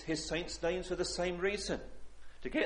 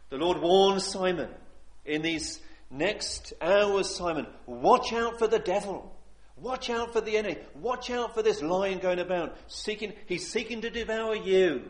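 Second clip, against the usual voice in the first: urgent warning; 3 semitones higher, 5 dB louder than usual. Acted. Preacher building an urgent warning.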